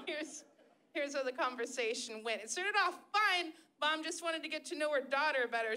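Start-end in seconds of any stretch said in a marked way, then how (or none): none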